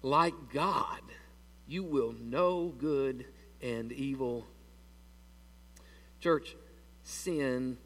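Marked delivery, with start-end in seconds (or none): 0.0-4.5 slow, hushed serpent tempting her; tempting devil. Retold or imitated. Serpent tempts Eve in the garden, slow and hushed. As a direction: draw her in slowly like the serpent. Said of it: "the devil says".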